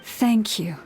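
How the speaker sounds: breathy whispered thank you; a whispered, relieved thank you. Acted. Quiet gratitude after relief.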